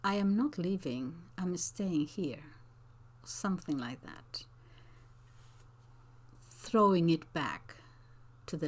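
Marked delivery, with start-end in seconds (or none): 0.0-2.5 defiant reply that returns the sarcasm; pointed comeback. Shown as a demonstration. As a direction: throw it back at her, firm and pointed. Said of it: "If you did get the sarcasm".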